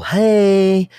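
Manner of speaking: loud, high call to a crowd; big call-and-response yell. Retold or imitated. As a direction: shout it out to grab the group. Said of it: "Mike would yell".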